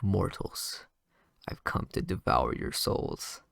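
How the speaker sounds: mock demon voice. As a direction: drag it out like a fake demon scaring people. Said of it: "kinda pranks them".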